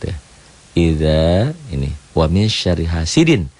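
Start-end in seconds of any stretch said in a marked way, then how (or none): 0.7-1.5 "Idza" recited with a long final a; Quran recitation. Shown as a demonstration. 2.1-3.5 slow recitation, "hasidin" ending on a clear n; idhar. Shown as a demonstration. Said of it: "Tanwin, idhar".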